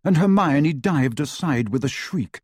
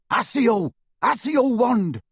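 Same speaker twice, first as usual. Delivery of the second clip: higher, urgent spell cry; desperate spell; 9 semitones higher than usual. A narrator's reading.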